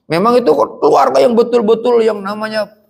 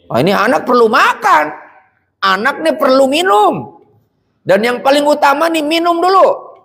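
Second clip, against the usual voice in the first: worried mother's thought; 8 semitones higher than usual. Acted. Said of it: "Pikiran seorang ibu".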